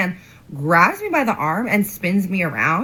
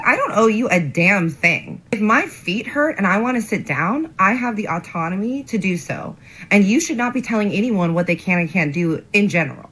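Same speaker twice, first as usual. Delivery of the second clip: measured, indignant telling-off; retold going off; 3 semitones higher than usual. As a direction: lay down the law, mildly heated. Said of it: "I start kinda going off on him".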